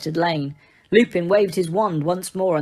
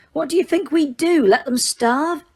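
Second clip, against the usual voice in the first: smiling slightly; 8 semitones higher than usual. A narrator's reading. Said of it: "smiling slightly".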